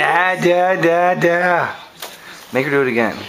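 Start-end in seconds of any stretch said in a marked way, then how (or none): 0.0-1.7 put-on high sing-song baby babble; floppy jaw ya ya drill. Shown as a demonstration. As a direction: babble loosely to coax the baby. Dad models babbling for baby.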